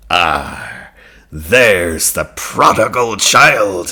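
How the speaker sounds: slow, drawn-out father's voice; lightly voiced father; Da's voice. A narrator's reading.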